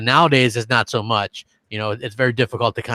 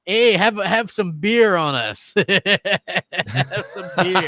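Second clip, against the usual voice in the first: playful cheer; 5 semitones higher, much slower than usual. Pretend. Playful holiday cheering between hosts.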